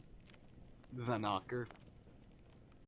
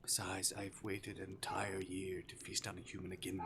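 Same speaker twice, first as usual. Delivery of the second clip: lightly voiced demon toying with prey; teasing Arctic demon. Demon to his captive human, playfully menacing.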